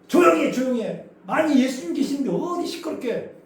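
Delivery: the crowd hushing the blind men, scolding. Retold or imitated. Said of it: "무리가 막 꾸짖어요".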